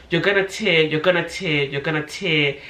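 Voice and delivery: mild, insistent mock yell; imitating a screaming midwife; retold mock scream. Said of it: "She kept just screaming".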